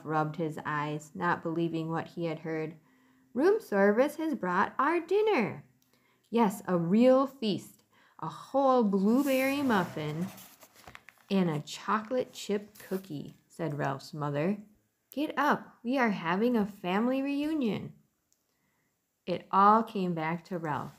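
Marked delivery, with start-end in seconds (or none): 3.3-13.4 higher, lively mother mouse; a pleased mouse mother. Acted. 15.1-17.9 higher, lively mother mouse; a pleased mouse mother. Acted.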